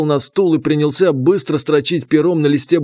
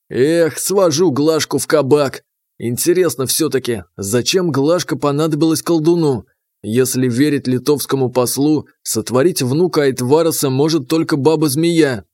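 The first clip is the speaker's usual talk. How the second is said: plain reading voice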